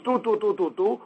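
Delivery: quick clipped "two, two" like short shofar notes; short staccato blasts. Shown as a demonstration. Teacher showing the short teruah blasts. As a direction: tap out each "two" short and separate. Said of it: "the short sound".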